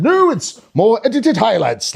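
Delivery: slow, stretched mock reassurance; Santa's smooth answer. Santa answering cheeky kid, slow and measured. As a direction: explain it slowly to a child.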